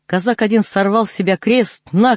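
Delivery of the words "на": shout. Acted. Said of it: "кричит Иуда".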